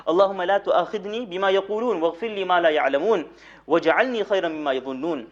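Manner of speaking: quick Arabic supplication recited in one breath; reciting a dua. Acted. Preacher recites the companions' dua to his listeners, quick and fluent. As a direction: rattle off the familiar Arabic prayer fluently.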